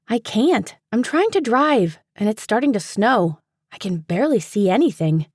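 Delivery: a hint of a stressed driver fighting the snow; Paige voiced.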